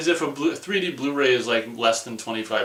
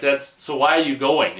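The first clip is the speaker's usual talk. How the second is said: incredulous; 4 semitones higher, 7 dB louder than usual. Retold or imitated. His sarcastic question to climbers.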